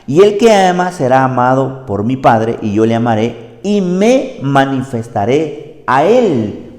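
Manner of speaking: loud, measured Bible reading; scripture reading. Acted. Reads Scripture aloud.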